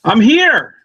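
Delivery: tinny, like through a tin can; bad laptop mic sound; thin voice no bass. Real, not acted. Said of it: "You sound like you're in a tin can".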